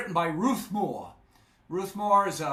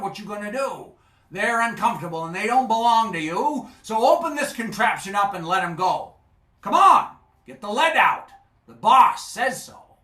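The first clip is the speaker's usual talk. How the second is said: much louder, higher, barking orders; bossy shout; 5 semitones higher, 9 dB louder than usual. Acted. Sea serpent ordering Charlie to free the fish, bossy shout. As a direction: order him about, building up to a yell.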